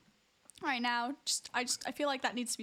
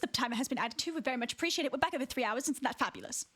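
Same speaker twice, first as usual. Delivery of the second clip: gracious posh British thanks; posh British accent. Pretend. Streamer thanking subscribers for donations, gracious posh British accent. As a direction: thank them in proper British English. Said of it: "posh British accent".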